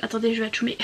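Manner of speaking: sniffly cold voice; blocked nose. Real, not acted. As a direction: talk through a stuffy nose. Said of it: "j'ai le nez qui coule".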